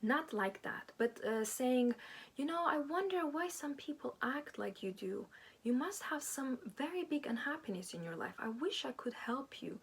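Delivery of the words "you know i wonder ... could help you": truly mean it, gently; sincere and genuine. Pretend. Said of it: "And really sincere, really genuine".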